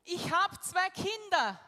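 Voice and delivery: high, loud, slow panicked cry from the cliff edge; frightened cry. Retold or imitated. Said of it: "wie sie ruft".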